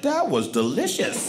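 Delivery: slow, swooping "delicious" in mock delight; drawn-out fake contentment; mock satisfied. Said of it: "they're like".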